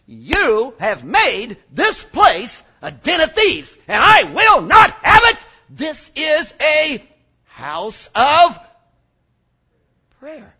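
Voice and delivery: shouted rebuke, slow and heavy; slow shouted rebuke in the temple; Jesus rebuking. Retold or imitated. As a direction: thunder it at the whole temple. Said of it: "he turns and says".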